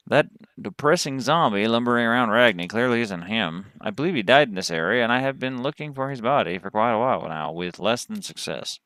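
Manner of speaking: lightly voiced Texas cowboy; Southern cowboy storyteller; cowboy accent. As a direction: read it as a cowboy recounting a search. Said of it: "that's the accent I chose".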